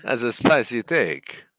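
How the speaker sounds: slow, drawn-out accented catchphrase; Latino accent. Shown as a demonstration. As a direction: savour the words in a thick accent. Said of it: "Hey, that's Italian".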